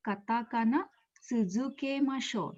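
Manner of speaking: slow, measured phrase for learners; slow teaching repeat. Shown as a demonstration. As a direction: draw out "Katakana tsuzukemashou" slowly.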